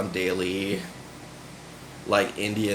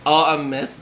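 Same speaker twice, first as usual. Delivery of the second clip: Dolly; 3 semitones higher than usual. Retold or imitated. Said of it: "Dolly and just being like".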